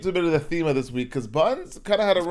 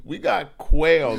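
a louder retake with a laugh breaking through; 6 dB louder, much slower than usual. Shown as a demonstration. Cohost asks for a retake, said louder through laughter. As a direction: repeat it, laughing this time. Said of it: "Yeah, just repeat that".

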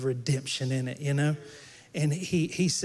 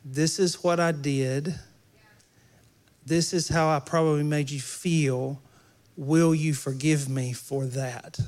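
slow, sincere and humble; sincere apology. Shown as a demonstration. Pastor to congregation, modelling a sincere apology, calm. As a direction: own what you did, gently. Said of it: "when you apologize to somebody, say".

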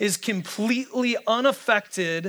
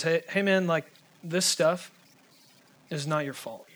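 Robin Williams. Retold or imitated. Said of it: "Robin Williams just goes".

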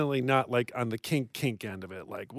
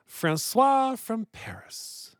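put-on French accent; 6 semitones higher, slower than usual. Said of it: "Merci, mon chéri".

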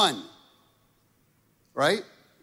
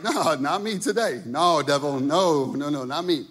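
loud refusal; 3 dB louder than usual. Retold or imitated. Peter refusing, rebuking the devil.

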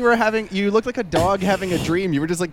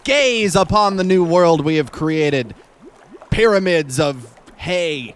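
grandiose proclamation; slower than usual. Acted. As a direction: proclaim like a mad king.

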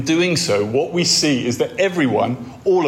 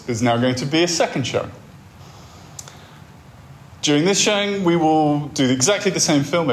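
cinema announcer voice. Pretend. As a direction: announce the second show over the PA. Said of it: "the voice comes back on and says".

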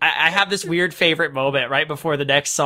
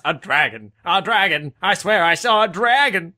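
put-on drunk rambling. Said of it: "Mickey Rooney could have his".

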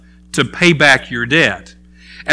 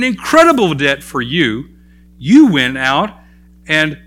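stern rebuke; 3 semitones higher than usual. Acted. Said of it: "And he says".

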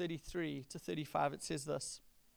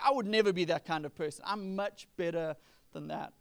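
loud, quick boast for the crowd; brave-sounding boast; 6 dB louder than usual. Retold or imitated. Peter boasting before the disciples, loud and quick. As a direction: show off to the other disciples. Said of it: "sounds courageous and brave".

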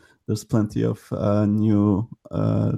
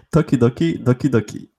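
laughing try; 3 semitones higher than usual. Shown as a demonstration. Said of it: "you guys are way better".

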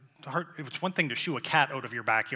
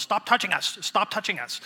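high, pleading plant voice; whiny plea from the plants; voicing the plants; 7 semitones higher, 4 dB louder than usual. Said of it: "my plants were probably saying to themselves".

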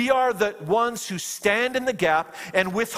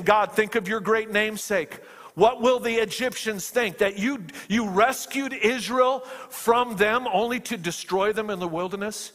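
retold plea, higher at first, then settling; crying out; 3 semitones higher than usual. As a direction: appeal to God as Moses, mildly urgent. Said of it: "he's crying out".

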